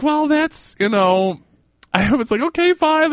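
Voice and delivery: high, sing-song okay fine; mock huffy. Telling cohost how she answered the woman, high mock huff. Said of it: "so I was like".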